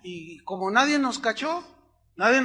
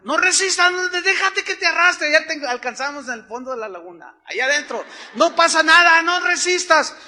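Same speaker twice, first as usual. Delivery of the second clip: higher, louder yell across the water; shouted advice; 8 semitones higher, 8 dB louder than usual. Retold or imitated. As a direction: shout it to someone being swept away. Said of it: "me gritaron".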